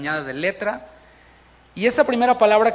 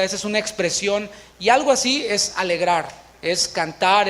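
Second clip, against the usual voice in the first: normal talking voice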